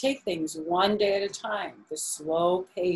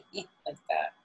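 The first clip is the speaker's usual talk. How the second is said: mocking laugh demo; 4 semitones lower, 5 dB quieter than usual. Shown as a demonstration. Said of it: "he was making fun of him".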